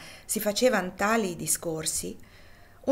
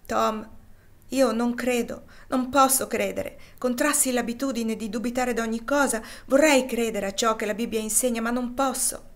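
anguished doubter; 4 semitones higher, 4 dB louder than usual. Acted. St. Clare confesses doubt.

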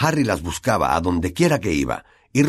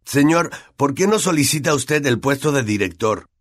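higher-pitched question to a teacher; Malfoy speaking up; 6 semitones higher than usual. A narrator's reading. Malfoy asking Snape about the headmaster's post, speaking up. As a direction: pipe up so the teacher hears. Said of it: "dijo Malfoy en voz alta".

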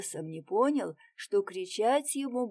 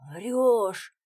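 louder, sharp disbelief; astonished exclamation; 3 semitones higher, 7 dB louder than usual. A narrator's reading. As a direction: blurt it out in shock. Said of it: "воскликнули Лёвушка и Демка".

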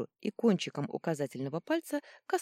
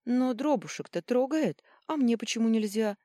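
high, louder protest; indignant; 7 semitones higher, 5 dB louder than usual. A narrator's reading. Younger sister protesting she's not allowed to touch. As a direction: whine in offended protest. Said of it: "возмутилась младшая Рубака".

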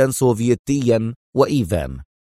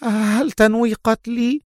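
trembling with fear; 11 semitones higher than usual. A narrator's reading. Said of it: "وهو يرتعد بردا ورعبا".

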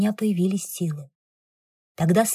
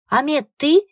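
high, loud startled call; 7 semitones higher, 7 dB louder than usual. Acted. Passenger calls to Amet over the storm, high loud call. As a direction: shout across the water in surprise.

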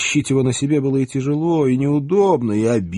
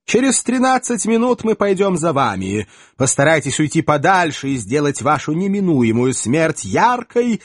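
high, cold, arrogant threat; haughty elf lord; 5 semitones higher than usual. Acted. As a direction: threaten like a smug hunter.

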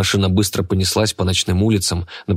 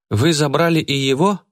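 surprised; 8 semitones higher than usual. A narrator's reading. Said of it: "удивлённо спросила Айгуль".

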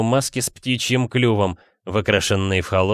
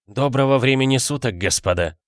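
безжизненный голос; 4 semitones higher than usual. Acted. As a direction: speak as if drained of life. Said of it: "безжизненным голосом проговорил он". (безжизненным голосом)

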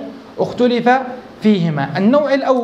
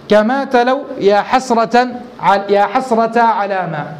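slow verse recitation; slower than usual. Acted. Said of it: "فقال".

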